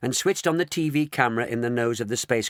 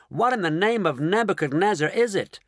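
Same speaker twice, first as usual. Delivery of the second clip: astonished; 8 semitones higher than usual. Acted. Shanks astonished at the object.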